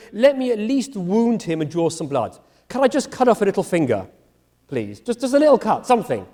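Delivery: a hint of wheedling, pleading; bargaining Abraham. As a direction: beg for just a small cut, lightly voiced. Abraham voiced bargaining with God.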